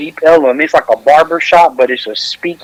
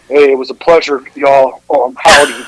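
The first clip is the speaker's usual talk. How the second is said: lightly put-on Texas accent; 3 semitones lower than usual. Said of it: "I'm gonna do my Texas voice now".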